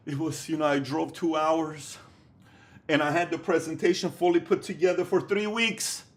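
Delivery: imitating a sulky rookie entrepreneur telling his sob story, rising to a high loud whine; mocking whiny babypreneur. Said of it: "They'll say".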